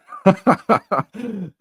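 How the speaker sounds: high, loud burst of laughter. Real, not acted. Still amused at his own teasing, loud laughter. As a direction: laugh hard at yourself.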